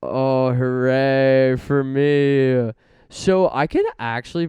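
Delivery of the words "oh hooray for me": slow, loud witch cackle voice; Wicked Witch voice. Acted. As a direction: crow it like a green witch. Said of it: "I am getting wicked like the Wicked Witch".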